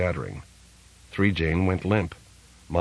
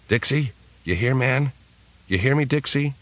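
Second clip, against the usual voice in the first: calling out; 6 semitones higher than usual. A narrator's reading. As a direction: shout across the void for a lost friend. Calling for Dixie, alone.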